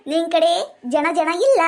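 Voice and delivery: slow, stretched-out mocking jab; teasing scorn, words spaced out; drawn-out taunt. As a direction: taunt him, dragging out each word. Taunts him for having no money.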